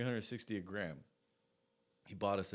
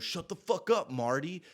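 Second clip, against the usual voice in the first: louder, higher mimicked yell; brash, raised-voice dismissal; shouted shut-down; 6 semitones higher, 7 dB louder than usual. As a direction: imitate a friend cutting someone off. Acting out friend silencing Marty.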